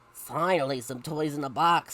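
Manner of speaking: weary, relieved mom; a touch of exhausted relief; sighing. Acted. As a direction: let it out as a mild sigh. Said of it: "sighed Spencer's mom".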